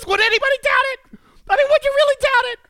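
hammed-up disbelief; over-the-top mock indignation; mock outrage. Mock outrage, playing along.

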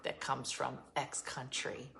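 slow hushed whisper of her rule; slow whispered imitation of a picky friend; whispered quote. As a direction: whisper it like a secret demand. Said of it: "She was like".

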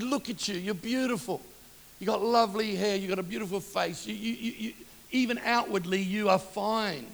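retold gentle encouragement, slowing on the last words; tender reassurance. Preacher retelling how he comforted an insecure girl, tender reassurance.

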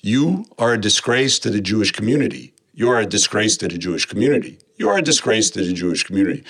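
lightly imitated robocall voice, evenly repeated; a hint of a flat machine recording, looping; robotic recorded voice. Retelling an anonymous robocall, lightly mimicking its robotic voice. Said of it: "in a somewhat robotic female voice".

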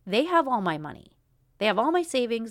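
They have all my money, hit hard and loud; fed-up outburst about money; frustrated emphasis. Real, not acted. Venting about clinic costs.

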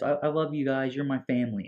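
high, gushing imitation; mock heartfelt declaration. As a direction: gush to the group, voice lifted. Retold emotional declaration among tripping friends.

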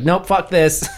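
high, hammed-up refusal; lightly voiced panicky monster; mock Venom bailing. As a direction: squeak out a cowardly nope. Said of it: "And he's like".

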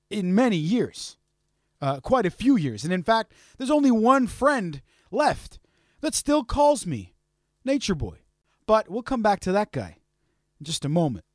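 soft narration with deliberate pauses; storyteller recap. Acted. Host recounting strange mail, soft storyteller narration. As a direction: tell the odd tale softly, piece by piece.

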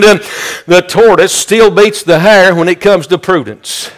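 rhythmic, driving sermon delivery; fervent preaching. Real, not acted. Preacher urging the congregation that he knows, fervent preaching. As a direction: preach it with insistent repeated cadence.

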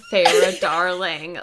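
slow mock purr with a laugh; imitating purr. Co-host quoting Rhysand's greeting, a laughing mock purr. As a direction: lightly mimic his purr. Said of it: "I love that he says".

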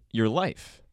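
whispered aside. Pretend. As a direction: breathe it like a secret. Mock-secret aside about plagiarism.

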